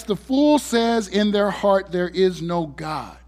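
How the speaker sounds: solemn reading. Acted. Quoting scripture slowly.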